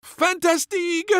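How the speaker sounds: put-on very high, loud French-accented cry; French chef cry. A narrator's reading. Chef delighted at finding the beans, French accent. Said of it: "cried the chef".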